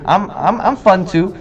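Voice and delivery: protesting mom. Retold or imitated. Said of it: "some of you ladies are like".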